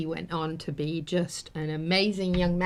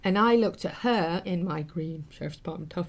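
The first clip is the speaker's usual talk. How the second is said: laughing while telling; 3 dB louder than usual. Real, not acted. Tearful story turns funny.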